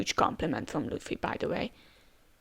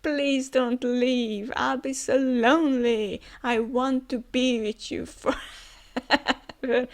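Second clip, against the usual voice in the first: mock crying plea; 3 semitones higher, slower than usual. Momonosuke begs Luffy to stay, slow and lightly tearful. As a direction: drag out the plea like a child begging. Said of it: "And now he's crying".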